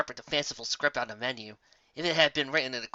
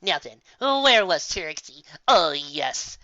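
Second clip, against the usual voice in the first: vain Trixie; 5 dB louder, much slower than usual. Acted. Trixie resuming her spiel.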